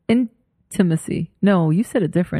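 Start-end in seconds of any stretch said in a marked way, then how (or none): 0.1-1.3 "intimacy" drawn out slowly, split after "in"; imitated mispronunciation. Co-host mimicking how he said it, slow split "intimacy". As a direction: mimic the odd "intimacy", stretching it syllable by syllable.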